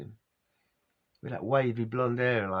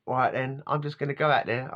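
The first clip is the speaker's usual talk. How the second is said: a hint of South African accent, barely shifted; lightly imitated South African probation officer; 2 semitones higher than usual. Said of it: "I can't keep doing his accent".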